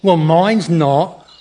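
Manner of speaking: halting, wandering fake English accent; badly faked English accent that slips about; shifting fake accent. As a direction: grope slowly through a phoney English accent. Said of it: "this unique accent, which keeps changing".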